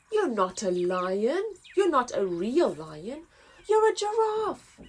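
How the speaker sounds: majestic lion roar. Acted. Lion rejecting the giraffe, roaring. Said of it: "roared a majestic-looking lion".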